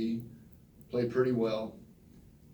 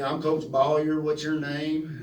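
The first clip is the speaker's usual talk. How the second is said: put-on slow, a bit higher and louder drawl of an old-school coach; hint of a small-town football coach introducing himself; coach's way of talking; 4 semitones higher, 4 dB louder, slower than usual. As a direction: lightly play the flat-top coach, drawing out the question. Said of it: "he kinda talked like this".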